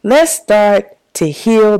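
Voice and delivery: "heal" drawn out for emphasis. Real, not acted. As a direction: restate it slowly, leaning on "heal". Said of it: "I do place emphasis on the word heal".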